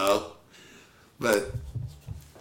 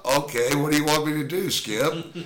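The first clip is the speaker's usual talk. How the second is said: higher, louder, fast and eager; mock eager reply; 7 semitones higher, 6 dB louder than usual. Catcher answering his manager with mock eagerness. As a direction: snap to it like an eager rookie.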